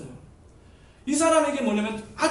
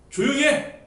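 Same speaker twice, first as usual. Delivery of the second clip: louder, higher neighbour's telling-off; acted annoyance; 4 semitones higher, 5 dB louder, slower than usual. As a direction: hush someone praying too noisily. Annoyed neighbour silences loud prayer. (짜증 내며 핀잔주는 흉내)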